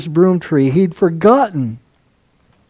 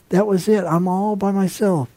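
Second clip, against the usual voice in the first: quiet despair; 7 dB quieter than usual. Acted. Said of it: "He felt like".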